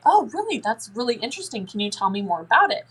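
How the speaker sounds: interested parent. Shown as a demonstration. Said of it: "all you have to do is say".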